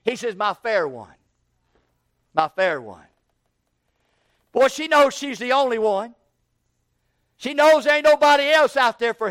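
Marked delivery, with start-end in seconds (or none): 0.3-3.1 lower, sweet repeated call; sweetly. Acted. Shepherd sweetly calling his fair one. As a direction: croon it sweetly. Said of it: "he calls her sweetly".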